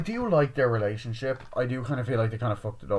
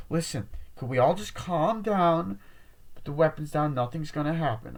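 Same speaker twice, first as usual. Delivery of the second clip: pleading for calm; 6 semitones higher than usual. Retold or imitated. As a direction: imitate talking down an armed group.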